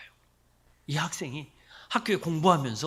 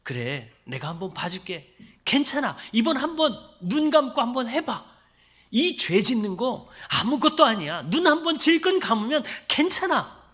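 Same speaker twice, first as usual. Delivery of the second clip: tempting voice; 4 semitones higher, 3 dB louder than usual. Retold or imitated. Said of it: "라고 유혹하고 회유합니다".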